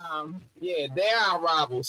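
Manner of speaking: muffled, through a wall. Real, not acted. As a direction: sound like a bad muffled mic. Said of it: "Your mic sounds like muffled sounds".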